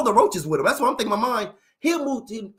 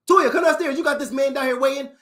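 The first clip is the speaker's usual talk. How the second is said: louder, higher call up the stairs to the sister; calling upstairs; 5 semitones higher, 3 dB louder than usual. Acted. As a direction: yell to her upstairs, impatient.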